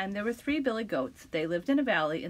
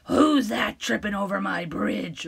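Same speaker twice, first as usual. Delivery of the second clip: troll roar; 4 dB louder than usual. Acted. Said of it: "roared the troll".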